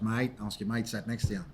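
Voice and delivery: low, soft mock-Australian reply; jokey attempt at an Australian accent; bad Australian accent. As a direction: imitate an Australian manager, badly done. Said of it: "obviously an Australian accent".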